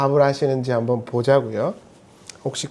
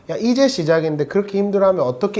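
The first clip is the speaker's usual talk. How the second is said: brisk scolding T; 2 semitones higher, faster than usual. Retold or imitated. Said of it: "이렇게 들릴 수도 있지만".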